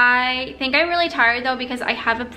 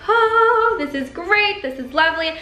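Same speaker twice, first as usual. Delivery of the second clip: mock relieved sigh; 4 semitones higher than usual. Vlogger freshly showered acting out relief, contented. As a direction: act out blissful relief, starting high. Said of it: "I feel so much more refreshed".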